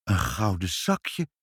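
slow, softly awed delight. A narrator's reading. Child receiving a gift from the baron, quietly delighted. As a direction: savour the discovery, drawn out. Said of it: "zei Ibbeltje verrukt".

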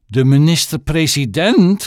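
loud high shriek of disbelief; mother shrieking on hearing who is calling. Acted. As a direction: shriek the title in shock. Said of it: "gilde moeder".

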